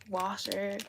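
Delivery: "Washer" in a light Irish accent, a sh in the middle; a quick mock Irish "Washer". Shown as a demonstration. Trying out an Irish way of saying water, lightly. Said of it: "like, Irish".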